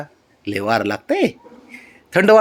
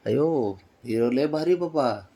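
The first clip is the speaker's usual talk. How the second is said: doting admiration; 9 dB quieter, slower than usual. Real, not acted. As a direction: coo it quietly, full of fond wonder. Softly admiring the child. (हळू आवाजात लाडाचं कौतुक)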